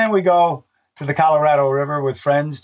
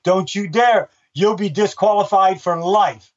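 raised stern dad warning, higher and slow; 5 semitones higher, slower than usual. Retold or imitated. Announcer warns a runner about to moon, in a stern dad voice. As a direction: scold him like a father stopping a kid. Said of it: "I started talking like a dad. I raised my voice".

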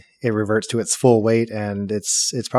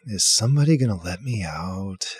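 muffled from inside a box; through a wall; 2 semitones lower, 3 dB quieter than usual. Acted. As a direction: voice trapped behind a lid. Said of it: "You hear a muffled voice from within".

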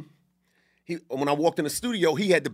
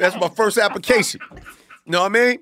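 louder, laughing through the words; 4 semitones higher, 5 dB louder than usual. Real, not acted. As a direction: crack up while insisting on it. Joking about chapstick, laughing.

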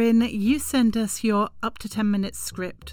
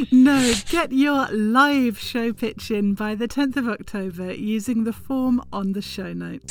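laughing through it. Real, not acted.

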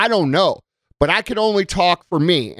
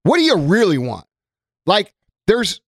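normal talking voice

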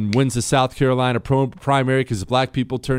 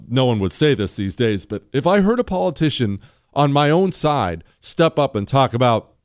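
normal talking voice

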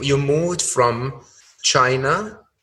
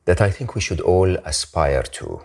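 measured host read, lower than conversation; guest introduction read; 7 semitones lower than usual. Acted. Host introduces happiness expert to listeners, measured introduction read. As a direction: present the guest's biography in a composed, scripted way.

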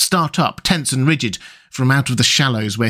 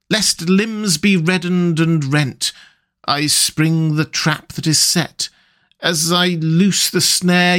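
verse recital; 3 semitones higher, slower than usual. Acted. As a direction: chant the words as if from far off. Rat reciting the song.

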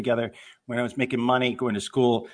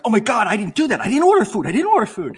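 retold panic; 7 semitones higher than usual. Retold panic over food order.

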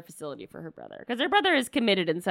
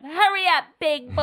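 high, loud come-hither call; loud teasing wife voice; sultry wife line; 8 semitones higher, 6 dB louder than usual. Retold or imitated. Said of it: "her offstage line of".

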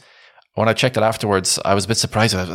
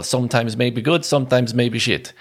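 Gattuso impression; 5 semitones higher, slower than usual. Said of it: "you remember that Gattuso".

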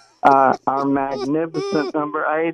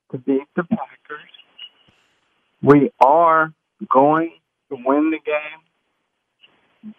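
pep talk speech; 4 dB louder than usual. Pretend. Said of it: "you give a little speech to your forty-niners".

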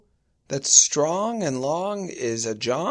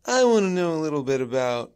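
creepy robocaller; 4 dB louder than usual. Retold or imitated. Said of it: "it's very menacing".

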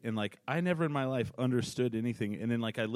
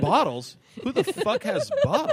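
high, loud disbelieving yell; incredulous shout; 14 semitones higher, 5 dB louder than usual. Retold or imitated. Comic recalling the stadium, shouting in disbelief. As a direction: bark it out in outraged disbelief. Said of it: "And I was like".

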